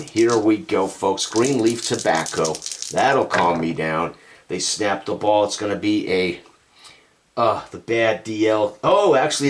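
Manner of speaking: put-on old-time radio play-by-play call. Announcer in the booth calling the game for the folks. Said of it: "I can't get my radio voice back".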